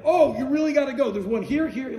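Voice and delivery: loud, high urging in his voice; imitating an eager singer. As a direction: push him to go, all enthusiasm. Imitating a singer urging gallery visit.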